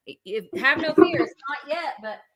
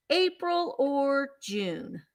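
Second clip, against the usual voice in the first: "April or June?" said slowly, drawn out and separated; slow repeat; 4 dB quieter, much slower than usual. Real, not acted. Seller repeating the choice to the buyer, slow and drawn out. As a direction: stretch each word to make the buyer decide. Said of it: "Do you want April or June?".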